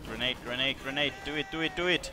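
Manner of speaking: grenade warning yell. Real, not acted. Grenade thrown in game.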